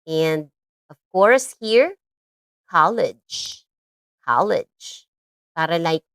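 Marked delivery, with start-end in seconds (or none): 2.7-3.7 college said slowly and clearly, two syllables, stress on the first; model pronunciation. Shown as a demonstration. Teacher modelling college for kids to repeat. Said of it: "That's how they pronounce that". 4.2-5.1 college said slowly and clearly, two syllables, stress on the first; model pronunciation. Shown as a demonstration. Teacher modelling college for kids to repeat. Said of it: "That's how they pronounce that".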